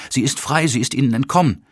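high-pitched, overwrought announcement; sobbed exclamation. A narrator's reading. Hans Olof reports her escape, overwrought, a touch of sobbing. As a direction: exclaim it high, as if near tears. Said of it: "schluchzte Hans Olof".

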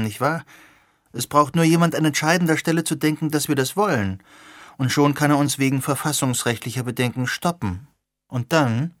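lightly voiced young woman, keen and questioning; a hint of an earnest young activist; Sirona's voice. Sirona argues on.

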